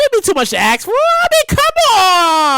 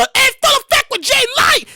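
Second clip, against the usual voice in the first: radio host intro; 11 semitones higher than usual. Acted. Jay's alter ego introducing his show, hype announcer. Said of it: "I'm the alter ego".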